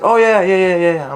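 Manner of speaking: squeaky mock nervous yeahs; mock eager agreement. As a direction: imitate the fake-ID kid overeager. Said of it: "He's like".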